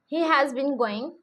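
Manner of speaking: drawn-out words, spaced for writing; slow dictation. Shown as a demonstration. Teacher dictating the example sentence, very slowly. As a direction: read it slowly so they can copy.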